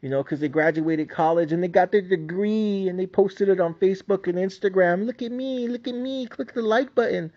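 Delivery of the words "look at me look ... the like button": mocking show-off voice. Mocking graduates posting online.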